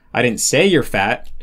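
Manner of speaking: "say" lifted in pitch, the rest unstressed; stress on SAY. Shown as a demonstration. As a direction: hit the word say. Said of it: "pitch in English can change".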